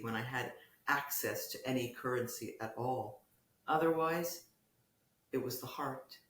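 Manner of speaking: measured prose reading with lifted openings and falling phrase ends; literary reading. Acted. Poet reads hospital piece to the interviewer, literary reading. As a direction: read it as a poet, pausing between phrases.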